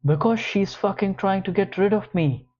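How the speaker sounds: snarl. Acted. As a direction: spit it out with contempt. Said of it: "George snarls".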